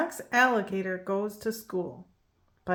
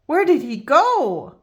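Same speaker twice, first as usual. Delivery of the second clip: eager cry; 7 semitones higher, 7 dB louder than usual. Acted. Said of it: "cried Bridget".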